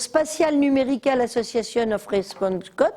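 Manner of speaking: English with a French accent. Real, not acted. Lecturer spells out an English acronym to the audience, French accent. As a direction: read the English term in a strong French accent. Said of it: "avec mon bel accent".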